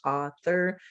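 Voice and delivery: author in two even English beats; English syllable by syllable. Shown as a demonstration. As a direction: sound out author as au-thor. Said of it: "How about in English?".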